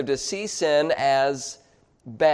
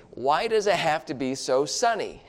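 complaining. Acted.

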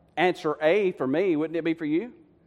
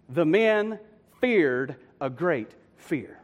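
"The men feared a great fear" word by word, with pauses; slow and deliberate; 3 semitones lower, much slower than usual. Shown as a demonstration. Preacher giving the literal Hebrew wording, slow and deliberate. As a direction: space out "feared" and "fear" slowly.

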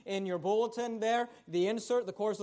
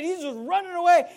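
excited shout; 6 semitones higher, 5 dB louder than usual. Acted. Preacher describing excited running.

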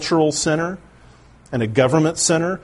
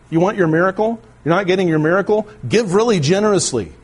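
higher-pitched preacher's sales pitch; mock prosperity preacher; 4 semitones higher than usual. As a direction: pitch miracles like a money-seeking preacher, voice lifted. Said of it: "people being told that very same thing".

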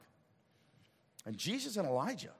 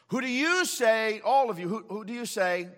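pressing question; 7 semitones higher, 8 dB louder than usual. Acted. Jesus pressing the disciples.

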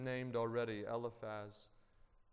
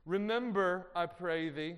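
Eliphaz preaching; 5 semitones higher, 7 dB louder than usual. Acted. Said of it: "this is Eliphaz speaking".

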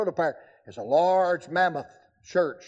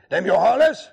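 louder South Carolina Southern twang; Southern drawl; 3 semitones higher, 7 dB louder than usual. Retold or imitated.

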